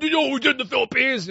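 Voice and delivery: high, mocking whiny protester voice; mad college leftist. Mimicking college activists mad about colonies, high mock-outraged voice. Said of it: "college leftoids ... would be all mad about".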